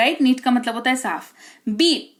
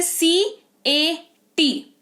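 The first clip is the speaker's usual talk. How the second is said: slow spelling out; 4 semitones higher, much slower than usual. Shown as a demonstration. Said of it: "क्या आया यहाँ पर".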